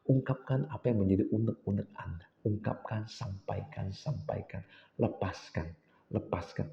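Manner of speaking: hushed, slowing urging to let it out; half-whispered guidance; soft coaching. Shown as a demonstration. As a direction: coax them gently to release. Coaching release during prayer.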